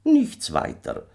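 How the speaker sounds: very high, drawn-out little stranger voice; kleiner Fremder. A narrator's reading. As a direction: answer slowly as the uncanny little man. Little stranger answers Michael. (kleiner Fremder, sehr hoch und gedehnt)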